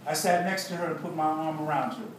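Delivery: measured, deliberate storytelling read; narrated account with weighted pauses; memoir narration. A narrator's reading. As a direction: read your own story aloud to an audience. Reads a memoir aloud.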